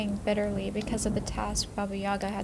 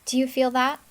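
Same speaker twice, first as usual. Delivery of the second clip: stern stepmother; 4 semitones higher, 6 dB louder than usual. Acted. Stepmother threatening girl, pinching nose.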